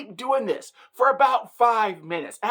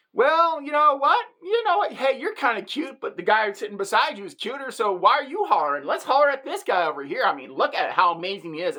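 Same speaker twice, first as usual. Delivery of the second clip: teasing catcall; 3 semitones higher than usual. Pretend. Woman catcalling the man back, cheeky and high-pitched. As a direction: tease him back, cheeky and sing-song high at first.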